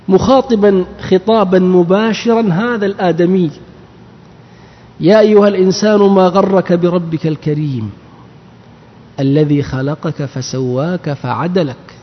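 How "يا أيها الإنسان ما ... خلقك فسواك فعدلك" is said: slow chanted recitation of the verse; Quranic recitation. Acted. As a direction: recite it measured and solemn. Quran recitation inside lesson.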